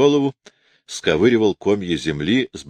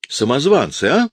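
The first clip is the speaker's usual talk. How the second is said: exclaiming; 8 semitones higher than usual. A narrator's reading. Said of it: "вскричал же штурман".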